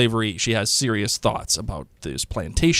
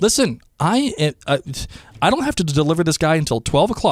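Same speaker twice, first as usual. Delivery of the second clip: higher, firm retort, acted; giving the business; 5 semitones higher than usual. Jocasta tells the mob to wait, acted firm telling-off. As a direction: lay down the terms, pitched up. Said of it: "giving them the business".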